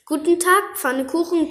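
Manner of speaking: high squeaky greeting; squeaky mouse. Acted. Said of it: "quiekte die Maus".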